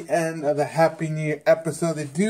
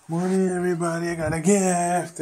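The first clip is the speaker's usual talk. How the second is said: mock cheery greeting; 4 semitones higher than usual. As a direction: imitate a character bursting in with good news. Retelling characters' cheerful entrance.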